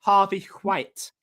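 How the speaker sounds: slow, plummy upper-class drawl; posh voice. Shown as a demonstration. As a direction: say Harvey White like a posh person. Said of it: "you got to say it like a posh person".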